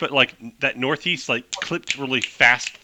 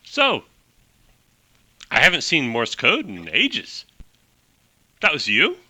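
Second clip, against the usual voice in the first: clipped Hepburn-style voice. Acted. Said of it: "really fast clipped talk like Katharine Hepburn".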